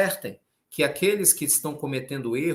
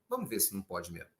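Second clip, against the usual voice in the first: usual speaking voice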